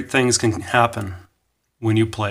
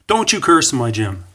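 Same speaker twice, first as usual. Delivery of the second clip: louder, mildly stern scolding; mock angry; 3 semitones higher, 5 dB louder than usual. Coach scolds gymnast for cursing in his gym, mock angry. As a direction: imitate a coach telling someone off. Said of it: "he sounded pretty angry".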